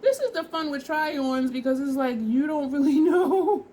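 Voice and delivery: laughing through the words; giggly, bright and loud. Real, not acted. Laughing at try-on surprise.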